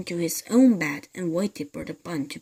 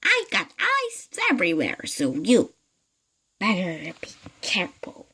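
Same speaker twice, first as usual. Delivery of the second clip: menacing hag. Acted. Mrs Twit warning her husband, witchy whispered threat. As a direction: threaten him, dropping to a hiss. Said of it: "cackled Missus Twit".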